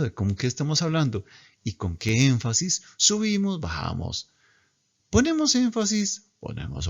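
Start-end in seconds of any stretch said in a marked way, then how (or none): 3.0-6.9 sing-song rise and fall. Shown as a demonstration. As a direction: voice up on "subimos", down on "bajamos". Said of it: "nosotros hablamos muy cantadito".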